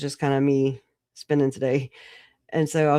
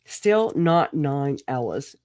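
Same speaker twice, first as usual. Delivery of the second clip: slow repeat; much slower than usual. Shown as a demonstration.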